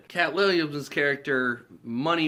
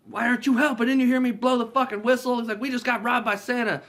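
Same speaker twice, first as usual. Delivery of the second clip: high, loud outraged victim; mock frantic complaint; 12 semitones higher, 6 dB louder than usual. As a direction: act out a panicked plea to cops. Robbed guard pleads with cops.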